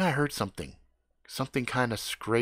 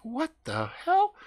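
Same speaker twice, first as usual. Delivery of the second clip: bewildered; 13 semitones higher, slower than usual. Retold or imitated. Bewildered reaction.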